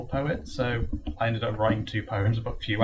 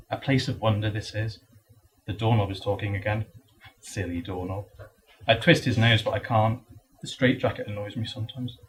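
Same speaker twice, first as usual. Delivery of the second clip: understated storytelling recital; poetry reading. Acted. Patient in padded room tells an Alice tale, understated recital. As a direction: recite the verse phrase by phrase. Reads Alice poem aloud.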